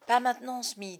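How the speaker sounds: dark, sharp put-down; grim rebuke. A narrator's reading. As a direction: cut him off darkly. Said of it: "l'air sombre". (réplique sombre et sèche)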